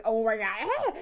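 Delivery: mild mock scream, a touch tearful; hammed-up cry of horror; retold scream. Gamer retelling her screaming at the game, mock scream. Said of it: "I was screaming".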